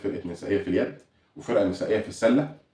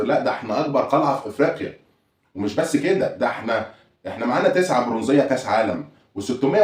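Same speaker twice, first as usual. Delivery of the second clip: a hint of a bragging fan, rising and higher; hammed-up boasting, piling up claims; lightly voiced rival-fan bragging; boastful rival fan; 4 semitones higher than usual. Imitating boastful rival fans.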